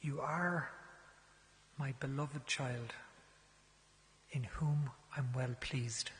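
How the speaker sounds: put-on bestow it like a blessing on a child; tender blessing. Priest gently blessing a penitent, slow and tender.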